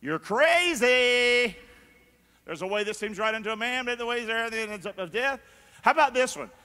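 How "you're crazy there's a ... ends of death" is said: very slow, booming hello down there; voice from above. Retold or imitated. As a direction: call down from heaven. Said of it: "it means".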